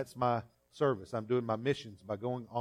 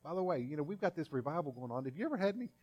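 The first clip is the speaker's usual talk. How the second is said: casual friendly question; 6 semitones higher, faster than usual. Acted. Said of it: "He says".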